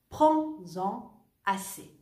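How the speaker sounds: "Prends-en assez" slow, z sound linking into "assez"; with liaison. Shown as a demonstration. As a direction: link "en" to "assez" with a z. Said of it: "ahí lo hago".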